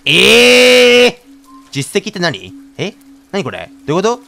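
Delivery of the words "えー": loud, high cry of disbelief; stunned yell at the game; shocked cry. Real, not acted. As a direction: shout it out in total shock. Shock at unexpected ending screen.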